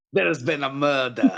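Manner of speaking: put-on French detective accent. Speaker delivers the line as suggested, in a Poirot-style French accent. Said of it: "should be said in some sort of French accent, like Poirot".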